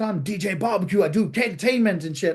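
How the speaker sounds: lightly voiced brash American; mock American accent. The DJ introducing his act, mock American accent. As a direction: put on an American showman a little. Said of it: "this annoying American".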